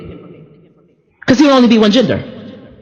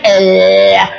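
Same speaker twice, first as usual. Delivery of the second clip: low drawn-out "ehh" of a lick; long, low licking sound; mimed licking noise; 5 semitones lower than usual. Pretend. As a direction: imitate a long slobbery lick. Mimics licking a hand.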